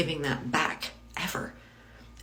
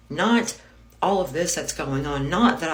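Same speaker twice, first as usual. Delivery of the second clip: angry outburst; 3 semitones higher, 5 dB louder than usual. Real, not acted. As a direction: spit the word out in fury. Furious outburst at husband's ego.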